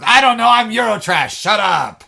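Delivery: high, loud fake French outburst; Dylan Moran's fake French. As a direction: yell it in a collapsing French accent. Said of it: "his accent is falling all over the place".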